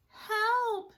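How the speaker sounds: very high, loud mock cry; a panicked mother bear; high loud shriek for help. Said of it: "said Missus Blair".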